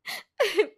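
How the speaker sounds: a high, put-on burst of sobbing; hammed-up weeping sound; fake sob. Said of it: "जोर जोर से रोने लगती है".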